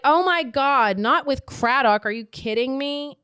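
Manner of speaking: high, loud, scandalised disbelief; mock appalled. Witness reacting to the kiss with Craddock, mock appalled. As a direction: play it aghast and hammed-up. Acted shock at catching the kiss.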